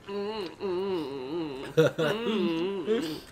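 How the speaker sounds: mock eating noises; hammed-up mm sounds while eating; mock chewing hums. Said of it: "you keep going".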